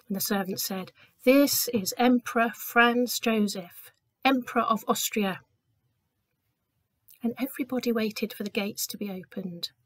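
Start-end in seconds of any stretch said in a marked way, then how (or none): 1.2-5.4 formal announcement. Acted. Servant announces the emperor.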